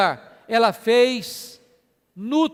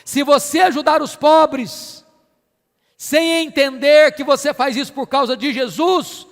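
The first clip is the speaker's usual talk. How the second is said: raised, forceful pulpit delivery; emphatic preaching; 4 semitones higher, 6 dB louder than usual. Real, not acted. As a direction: drive the point home to the congregation.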